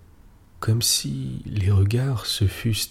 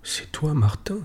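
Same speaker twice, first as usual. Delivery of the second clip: stammering; 6 semitones higher than usual. A narrator's reading.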